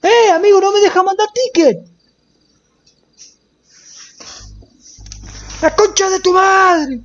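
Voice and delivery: high-pitched exasperated shout; frustrated yell. Real, not acted. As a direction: yell it at the broken game. Game won't let him send ticket.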